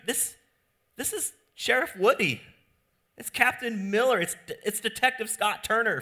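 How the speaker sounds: high, loud, incredulous rant; to the clueless friend, high and loud disbelief; exasperated fan. Retold or imitated. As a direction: list the roles in disbelief, building. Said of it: "You would be like".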